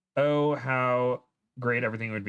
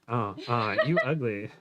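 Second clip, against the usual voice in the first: laughing. Real, not acted. Chant dissolving into laughter.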